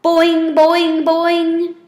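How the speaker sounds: high, loud springy frog call; frog boing. A narrator's reading. Frog calling out to the class, high and loud boing. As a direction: twang it out like a bouncy frog. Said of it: "The only one who made a sound was Og".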